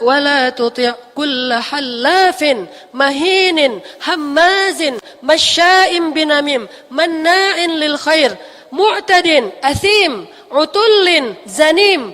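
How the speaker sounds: fast, loud, rising Quran recitation with an angry edge. Shown as a demonstration. Preacher shows the angry tune of the verse. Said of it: "kalau kita baca tuh iramanya kurang lebih".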